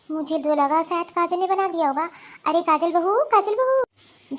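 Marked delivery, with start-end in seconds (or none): 2.4-4.4 stretched loud call across the house; mother-in-law calling her daughter-in-law from the kitchen, loud drawn-out call. Acted.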